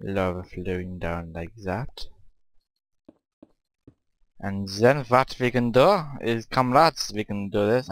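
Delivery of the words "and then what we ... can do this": attempted Russian accent, addressing comrades. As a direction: put on a playful amateur Russian accent. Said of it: "doing a Russian, or attempting to do a Russian accent".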